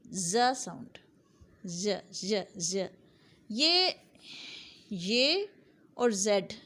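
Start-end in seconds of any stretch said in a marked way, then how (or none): 0.1-2.9 ज़ buzzed out slowly as a demo sound. Shown as a demonstration. Teacher demonstrating the sound ज़ to students. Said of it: "बन जाएगी sound". 3.5-5.5 ये said as a drawn-out teaching sound; demo sound. Shown as a demonstration. Teacher sounding out ये for learners. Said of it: "एक sound बनती है".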